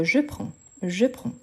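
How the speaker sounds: "je prends" finishing on a nasal vowel, no consonant; silent D S. Shown as a demonstration. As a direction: drop the d and s of "prends". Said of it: "je ne le prononce pas". (« je prends » avec d et s muets)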